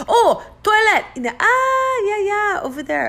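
mimicking a local. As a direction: play the helpful local who finally gets it. Mimicking a local giving directions.

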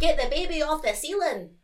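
loud Edinburgh accent, Trainspotting style. Shown as a demonstration. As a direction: put on a punchy Edinburgh voice. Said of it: "you've got the Edinburgh accent".

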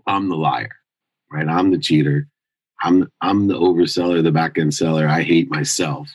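admitting his own faults, somber. Real, not acted. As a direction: turn the insults on yourself, heavy. Quiet confession echoing earlier insults.

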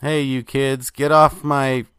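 put-on half-hearted shout at kids; mock yelling. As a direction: playfully pretend to holler from a car. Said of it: "yelling nonsense from my car".

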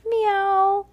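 high-pitched mew; cat meow. A narrator's reading. General Washington fleeing in the chase, meowing. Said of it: "said General Washington".

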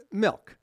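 attempted "milk" that leans to "melk"; heavy E. Real, not acted. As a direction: say "milk" with an E-coloured vowel. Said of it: "there's still a heavy E in there".

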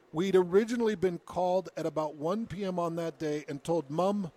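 lightly put-on British accent, reading a quote. Host reads the son's account of missing Mom, British accent. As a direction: read it out in a creeping British accent. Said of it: "why is the accent getting more".

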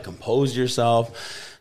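slow, measured reminder to keep cool; self-calming. Retold or imitated. Mid-argument on the phone, a slow self-calming reminder. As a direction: talk yourself down slowly. Telling himself to calm down.

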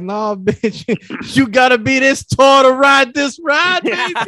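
high, loud, laughing sassy brush-off; cocky sass. Retold or imitated. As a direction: toss it off with swagger. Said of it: "I'm like".

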